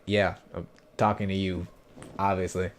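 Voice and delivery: understated sarcastic reply; dry, mildly smart-aleck answer; smart-aleck retort. Retold or imitated. Goblin leader answering the confused hero, mildly sarcastic. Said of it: "in a smart aleck way".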